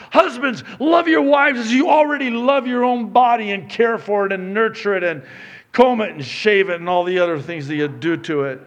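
normal talking voice

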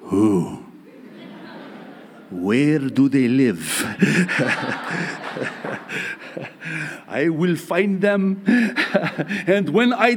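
protective dad. Retold or imitated. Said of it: "I'm like".

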